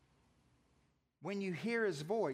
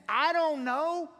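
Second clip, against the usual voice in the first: higher, louder, slow hammed-up shrug; mock shrug; 9 semitones higher, 8 dB louder, slower than usual. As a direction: toss it off like it doesn't matter. Dismissive shrug.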